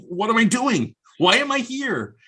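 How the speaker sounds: mock panic. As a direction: replay the moment of alarm in a high, startled voice. Retold panic in a crowded restaurant.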